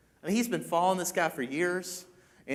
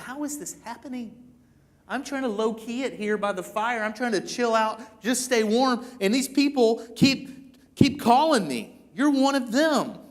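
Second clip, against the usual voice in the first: higher-pitched, acted exasperation; exasperated complaint; 6 semitones higher than usual. Peter's exasperation at being called out.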